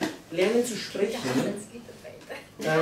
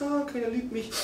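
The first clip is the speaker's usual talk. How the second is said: higher-pitched imitated whine; mock self-pity; 5 semitones higher than usual. Preacher imitates someone talking themselves small, mock self-pity. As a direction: lightly whine it like poor me. Example of self-pitying talk.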